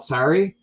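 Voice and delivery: "Sorry" with an open front vowel, like sari; American "sorry". Acted. Imagined foreign market renaming a singer's song, the title said "sah-ree". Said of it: "over here, it's called".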